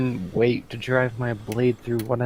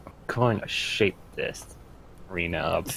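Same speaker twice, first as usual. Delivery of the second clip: hushed, low mumble; mumbling; 4 semitones lower, 8 dB quieter, faster than usual. Acted. Cassandra grumbles to herself after the arena, mumbling. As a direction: mumble it softly to yourself. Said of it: "Cassandra mumbles again".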